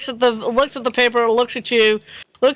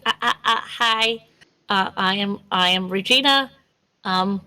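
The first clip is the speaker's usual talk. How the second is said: hesitant, lower-pitched shy introduction; shy trainee; 3 semitones lower than usual. Acted. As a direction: stammer through it, timid around new people. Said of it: "kind of act like she was".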